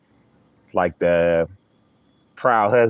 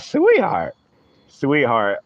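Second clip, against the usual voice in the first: sweet retake; 5 semitones higher, slower than usual. Shown as a demonstration. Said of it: "y'all hear how that came out?".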